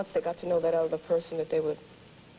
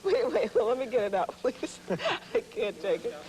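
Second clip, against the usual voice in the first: high, giggly pleading; fighting off a laughing fit; hysterical laugh; 5 semitones higher than usual. Real, not acted. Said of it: "once I laugh".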